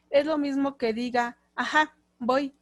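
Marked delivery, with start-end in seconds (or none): 1.5-2.5 willing reply. Shown as a demonstration. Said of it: "es la entonación".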